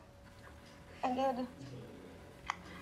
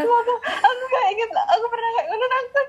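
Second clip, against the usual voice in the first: talking through real laughter; high, laughing protest; 9 semitones higher than usual. Real, not acted. Laughing at being teased. (sambil tertawa)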